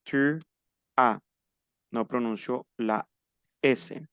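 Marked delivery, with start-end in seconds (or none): 0.0-1.2 "tu as" ending on an open A, no S; silent final S. Shown as a demonstration. Teacher shows the silent letter, "as" said as A. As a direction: leave the S of "as" silent: "tu a". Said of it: "saben que no se pronuncia".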